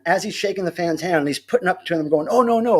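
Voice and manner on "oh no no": higher-pitched imitated protest; a touch of put-on panic; mock alarm. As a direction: lightly act out warding someone off. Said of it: "like the fan is lunging at them".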